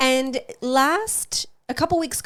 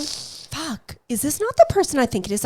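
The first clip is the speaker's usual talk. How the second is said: panicked; 5 semitones higher than usual. Retold or imitated. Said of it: "And I'm, like, going".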